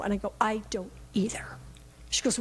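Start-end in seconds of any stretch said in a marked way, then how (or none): 0.4-1.4 soft, hushed agreement; confiding whisper. Retold or imitated. Grandmother confiding to her granddaughter in a whisper. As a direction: whisper it like a secret shared.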